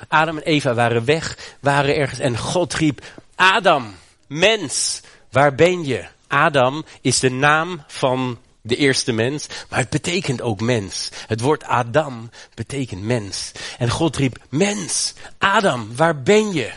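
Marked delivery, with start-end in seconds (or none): 3.4-6.1 higher, louder call across the garden; calling for Adam, louder and higher; God calling out. Acted. 14.5-16.7 God calling out. Acted.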